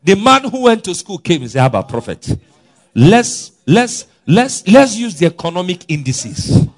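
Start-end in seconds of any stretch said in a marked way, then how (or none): 1.6-6.7 a high, loud mocking voice of the doubting officer; mocking doubter. Preacher mimicking the scornful officer, high and loud. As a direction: mimic the scoffer who doubts the prophet.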